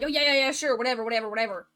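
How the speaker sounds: loud, rushed yes-yes in a panic; panicked agreement. Retold or imitated. Husband panicking at the witch, hasty agreement. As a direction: agree to anything just to escape. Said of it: "he was all like".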